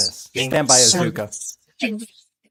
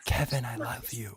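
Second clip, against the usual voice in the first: much softer, hushed; faint whispery imitation of the spirit; imitating a faint voice; 3 semitones lower, 11 dB quieter than usual. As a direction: breathe it out barely there like a ghost voice. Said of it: "So quiet. Just like that".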